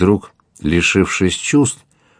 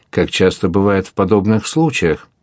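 plain reading voice

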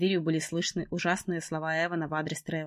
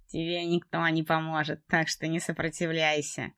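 slow menacing man; slower than usual. Acted. Trevor threatens her.

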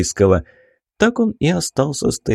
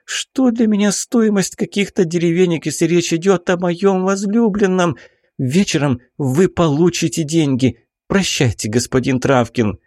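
urgent baroness; 8 semitones higher than usual. A narrator's reading. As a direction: drag each word out high, demanding action now. Baroness voiced in story.

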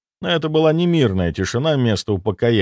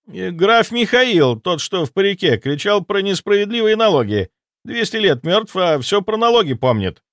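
panicked ghost soldier; 9 semitones higher than usual. Acted. Ghost soldier reporting the dead army, high panicked voice. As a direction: babble the news in alarm. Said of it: "не унимался призрак".

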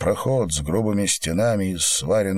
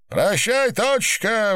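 shouted farewell; 14 semitones higher, slower than usual. Acted. Singer yelling goodbye to the club from stage, shouted. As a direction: call it out to the whole hall. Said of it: "выкрикнул Шнур".

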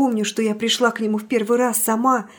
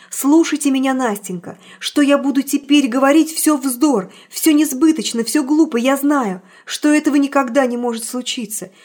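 resolute declaration; 2 semitones higher, 5 dB louder than usual. Acted. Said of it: "сказал я решительно".

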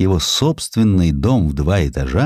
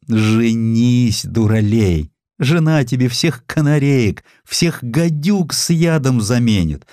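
put-on bossy old mother; 5 semitones higher than usual. Mother urges son to marry.

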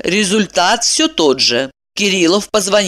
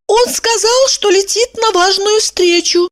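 high-pitched woman's voice; Evdokia's voice; 14 semitones higher than usual. A narrator's reading. Evdokia telling Kirillov about her husband, high voice.

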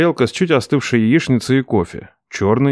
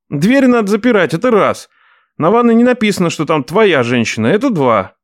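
nephew arguing; 8 semitones higher than usual. Acted. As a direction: argue point by point. Nephew argues.

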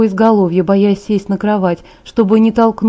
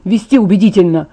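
louder bitter reproach; bitter, spat out; 4 dB louder than usual. Acted. Jacob bitterly reproaches Bella for kissing him back. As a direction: throw each word back at her. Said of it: "Он словно выплёвывал слова".

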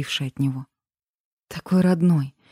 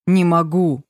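a louder, barely held back growl on не могу; 4 dB louder, slower than usual. A narrator's reading. Lover to heroine, barely holding back fury, louder growl. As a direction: push не могу out louder, fighting the rage. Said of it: "рыкнул он".

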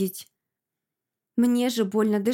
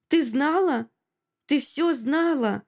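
higher-pitched, mounting accusation; accusing, through teeth; 4 semitones higher than usual. A narrator's reading. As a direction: demand an answer with restrained anger. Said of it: "Цедит сквозь зубы".

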